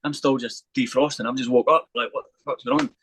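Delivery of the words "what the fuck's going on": much higher, startled and half-asleep; groggy disbelief as the police swarm in; confused panic. Retold or imitated. Just woken by police shouting, blurting out in high confused panic.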